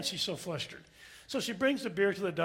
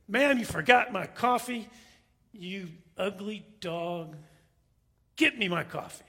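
rude. Acted. Passenger demands his forgotten coffee from stewardess, acting rude. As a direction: imitate the rude duck, drawing out the insult. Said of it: "I'm as rude as this duck".

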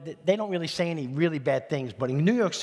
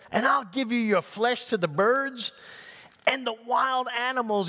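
high, mildly yelled threat; Goliath's yell; 6 semitones higher than usual. Acted. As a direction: threaten like a contemptuous giant, pitch raised. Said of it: "Goliath yelled".

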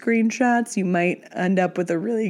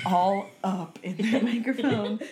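embarrassed laughing; slower than usual. Real, not acted. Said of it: "I cannot believe I burped".

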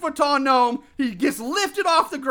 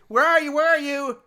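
higher-pitched searching call; mock calling out; 4 semitones higher than usual. Host voices Carrie looking for Michelle, mock calling out. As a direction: call out for a missing friend, half-acted. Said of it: "so Carrie called out for Michelle".

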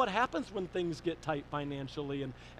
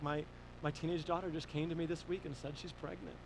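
softer, hesitant admission; subdued confession; 6 dB quieter than usual. Retold or imitated. Pastor telling dad about his daughter, subdued. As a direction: quietly let the hard news out.

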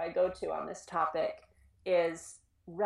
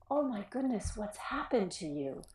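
gentle; 3 semitones higher than usual. Shown as a demonstration. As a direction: say it with concern. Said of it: "your body relaxes a little bit".

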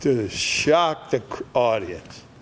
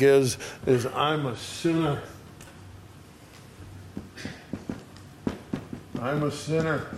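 anguished confession; 2 semitones higher than usual. Retold or imitated. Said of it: "That's my impression".

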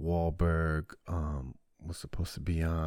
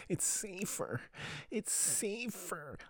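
high mock voice; 14 semitones higher, 9 dB quieter, much slower than usual. Mock repeat after a joke.

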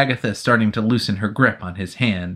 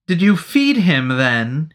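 casual; 5 semitones higher, 3 dB louder, slower than usual. Acted. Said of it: "he asked casually".

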